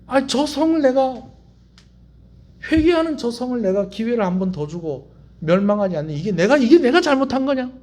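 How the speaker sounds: lightly acted indignant God; protest, rising into a challenging question. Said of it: "하나님께서 뭐라고 얘기하시느냐". (하나님이 억울한 듯 따져 묻기)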